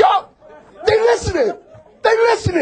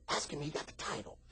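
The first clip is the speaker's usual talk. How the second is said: the Lord's voice; 12 semitones lower, 24 dB quieter than usual. Retold or imitated. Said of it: "the Lord said".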